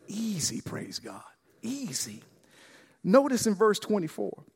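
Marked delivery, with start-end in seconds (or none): 0.1-2.2 hushed easy. Real, not acted. Preacher hushes the congregation, softly. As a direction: drop to a soft hush, almost a breath. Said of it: "preacher drops voice to hush".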